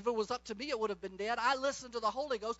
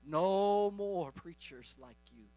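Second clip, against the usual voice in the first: slow, low imitated Caribbean accent; 5 semitones lower, much slower than usual. Caribbean man insisting to the preacher after service, imitated accent, slow. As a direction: stretch it out in a Caribbean man's accent. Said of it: "in his Caribbean accent".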